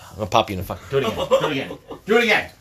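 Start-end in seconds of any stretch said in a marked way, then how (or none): 1.3-1.8 breathy whispered taunt; whispered dare. Real, not acted. Teasing dare to son. 2.1-2.5 high, loud challenge; loud taunt. Real, not acted. Teasing dare to son.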